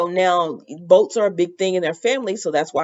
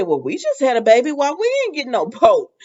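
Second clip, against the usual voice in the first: quick, higher-pitched mock grievance; imitated indignant complaint; 7 semitones higher, faster than usual. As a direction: mimic someone put out at being passed over. Retelling Jan's complaint about the boat.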